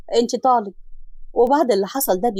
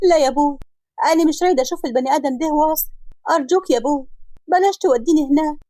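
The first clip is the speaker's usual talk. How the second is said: higher, mildly tearful plea; tearful pleading; 5 semitones higher than usual. Acted. Daughter begging father, higher and tearful. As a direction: beg her father not to take her, near tears. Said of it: "فضلت تعيط وتقول لأبوها".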